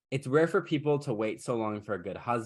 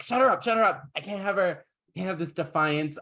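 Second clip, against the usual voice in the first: outraged ogress; 6 semitones higher than usual. Acted. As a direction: shriek the order, hammed-up, then settle. Voices ogress ordering queen silenced.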